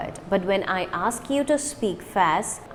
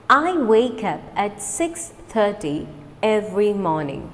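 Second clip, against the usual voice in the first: slow, clear model sentence; slow repeat. Shown as a demonstration. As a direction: say it slowly for learners to copy. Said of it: "Repeat after me slowly".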